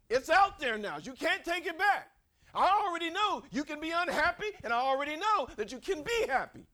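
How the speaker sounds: loud, high, driving preacher's shout; forceful confrontation. Acted. God confronting Jonah over his attitude, forceful shout. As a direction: press the point home at full force.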